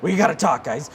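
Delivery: high-pitched, mock panicked plea; freaking-out coworker. Host mimics coworker freaking out before E3, mock panic. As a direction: imitate a panicking colleague, voice climbing. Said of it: "Brian started freaking out".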